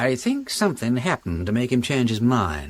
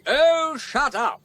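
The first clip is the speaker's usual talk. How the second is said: angry retort; 14 semitones higher, much slower than usual. Acted. Acted quarrel continues.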